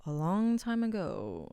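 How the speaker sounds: slow, lightly put-on storyteller; mock storybook opening. Actor parodies the backstory opening they avoid, slow storyteller voice. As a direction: draw it out like a tale's opening.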